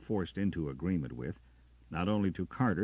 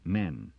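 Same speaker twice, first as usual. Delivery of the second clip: Men. weighted and louder; stressed word; 4 semitones higher, 6 dB louder than usual. A narrator's reading. Jackson correcting Carter, stress on Men. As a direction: lean hard on Men. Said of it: "Jackson stressed the word".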